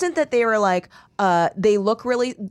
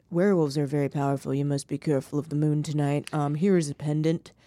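low, hurried imitation of a character; Luke; 7 semitones lower, 5 dB quieter, faster than usual. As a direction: imitate him in a lowered, quick voice. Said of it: "And he's like".

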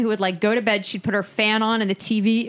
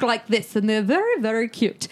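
rough, uncertain English accent; wobbly mock English accent; attempted English accent. Shown as a demonstration. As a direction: have a playful go at an English accent. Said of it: "what kind of accent that was".

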